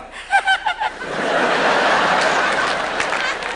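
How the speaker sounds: very high unvoiced cackle; high giddy cackle. Marathon runner's face at the finish, high giddy cackle.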